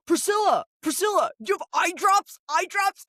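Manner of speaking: calling across the room. Retold or imitated. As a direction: yell the name across a room to get her attention. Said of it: "Ashley's like".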